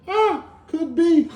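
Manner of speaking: high, slow, drawn-out "Ah, could be"; mock-casual "could be" of the special needs guy; easygoing shrug. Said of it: "It's my auto response".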